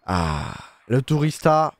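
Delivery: slow, relished "le tourista" in a light Spanish accent; playful Spanish accent, slowed down; mock Spanish accent. Shown as a demonstration. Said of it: "avec un bel accent".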